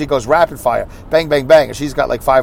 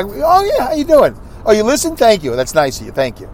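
gracious fan greeting; 5 semitones higher than usual. Retold or imitated. Acting gracious to fans.

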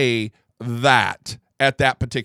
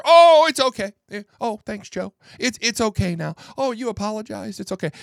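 mock Corn Pop reply; 6 semitones higher, 3 dB louder than usual. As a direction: play the gang leader as a silly pushover.

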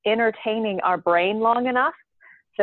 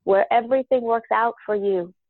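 channeled council voice. Acted. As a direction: speak as a wise collective spirit. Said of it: "So my voice changes a little bit".

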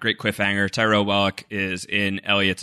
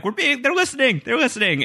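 urgent warning; 14 semitones higher than usual. Retold or imitated. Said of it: "he writes it down".

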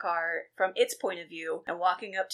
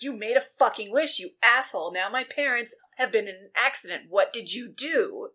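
lightly raised, accusing acted voice; mock yelling; 3 semitones higher, 5 dB louder than usual. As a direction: act out yelling at a friend. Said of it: "he starts yelling at Kevin".

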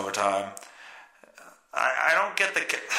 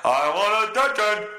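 singsong mock plea for attention; taunting singsong voice of a guy who wants eyes on him; mock attention-seeker; 3 semitones higher than usual. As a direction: sing it out like a show-off begging to be watched. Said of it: "standing there going".

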